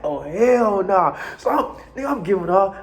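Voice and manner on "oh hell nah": indignant. Retold or imitated. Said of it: "And I was like".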